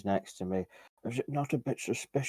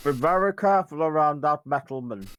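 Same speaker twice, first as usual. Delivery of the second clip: tiny squeaky shouting voice, high-pitched and loud; 6 semitones higher, 6 dB louder than usual. In a role-play game, a player's character shouts a warning: tiny squeaky shout. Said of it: "your tiny little squeaky voice echoes".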